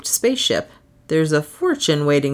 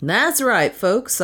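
bawled; 4 semitones higher, slower than usual. Acted. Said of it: "I bawled".

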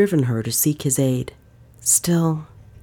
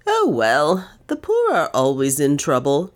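airy heartlessness. Acted. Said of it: "with airy heartlessness".

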